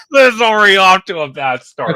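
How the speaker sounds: laughing disbelief. Real, not acted. Host laughs at botched interview.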